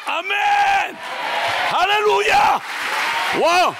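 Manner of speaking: high, loud amen and hallelujah; excited shout. Real, not acted. Pastor cheering after the shout, excited loud cry.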